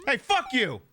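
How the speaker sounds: high, furious yell at the screen; angry shout. Real, not acted. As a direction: tell him off at full force. Yelling at game opponent.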